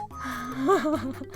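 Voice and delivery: low laugh at own fumble; real giggle. Real, not acted. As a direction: break up laughing mid-take. Outtake, fumbling the voice.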